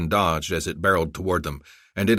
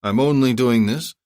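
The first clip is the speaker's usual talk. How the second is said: proud general; 5 semitones higher, 5 dB louder than usual. Acted. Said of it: "Bushazi radioed".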